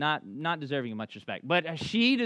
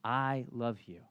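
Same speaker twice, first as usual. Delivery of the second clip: softer, lower, deliberate declaration of love; earnest reassurance; 5 semitones lower, 5 dB quieter, slower than usual. Retold or imitated. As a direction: make sure he truly takes it in. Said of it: "No, no, look at me".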